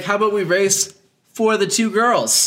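high, slow sleazy offer; mock rival racer. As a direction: drawl the bet like a sleazy rival.

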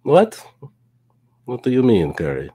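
a hint of a mock Russian accent, jumping high on What; lightly put-on Russian accent, playful; bad Russian accent teasing the co-host. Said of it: "This is my bad Russian accent".

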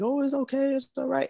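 high, soft mock reassurance; lightly mocking, high-pitched soothing; imitated consoling. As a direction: imitate someone cooing comfort. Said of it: "holding her like".

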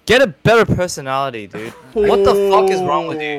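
slurry tipsy telling-off. Real, not acted. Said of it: "I'm so drunk right now".

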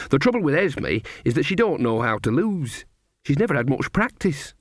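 put-on a knowing old granny sharing gossip; Nanny Ogg. Nanny to Magrat, gossiping about Esme, old woman voice.

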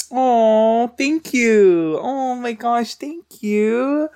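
very high, loud, gushing thank you; over-the-top girly gratitude; mock flattered squeal. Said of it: "And then you just go".

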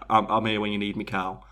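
understated reassuring figure; reassuring bear. Retold or imitated. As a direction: lightly play a comforting guardian, trailing down low. Voicing the bottle as protector.

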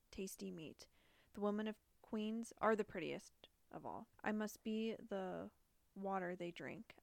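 measured, even read-aloud delivery; letter reading. Acted. Podcaster reading a killer's rambling letter to co-host, measured read-aloud. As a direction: read it out steadily, phrase by phrase.

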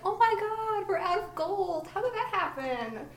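high, loud fake alarm; fake shock. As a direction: gasp it out in mock horror. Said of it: "and he'd be like".

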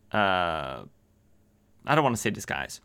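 ordinary delivery

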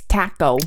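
"taco" with a short flat A as in cat; British pronunciation. Shown as a demonstration. Correcting co-host's British accent, "taco" said TACK-oh. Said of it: "I think it's taco".

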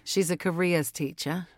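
light Sheffield accent. Shown as a demonstration. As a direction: give a sample of a Sheffield accent. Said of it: "are you doing a Sheffield accent".

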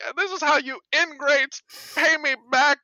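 put-on high shrill scolding old woman; shrill scolding grandma. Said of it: "she's just like".

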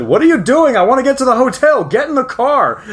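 high-pitched mock nag; mock bossy driver. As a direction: tease him like a nagging driver. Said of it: "and I said".

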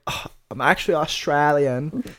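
lightly imitated Australian accent. Retelling the cashier's answer, mock Australian accent. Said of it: "she's clearly Australian".

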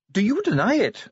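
high-pitched dwarf challenge; Ardent, accusing. A narrator's reading. Dwarf presses the commander to confess, accusingly. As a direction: demand an admission, pitched right up. Dwarf interrogates Vimes about crime.

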